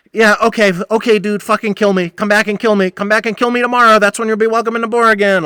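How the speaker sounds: high, loud mocking taunt; yelling and waving the drunk out the door; taunting shout. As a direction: dare him to come back, loudly. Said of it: "I definitely lost my shit".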